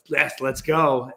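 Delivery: slow, drawn-out retold cheer; excited cheer. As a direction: stretch out an eager yes. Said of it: "I was so energetic, so excited about it".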